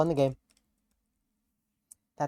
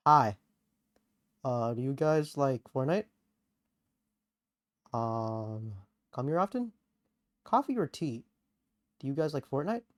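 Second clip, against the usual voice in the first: Yuri impression; 2 semitones lower, 5 dB quieter than usual. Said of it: "I can do one better".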